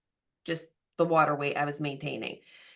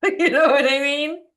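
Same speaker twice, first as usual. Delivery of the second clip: laughing; 9 semitones higher, 9 dB louder than usual. Real, not acted. Laughing over ice cream admission.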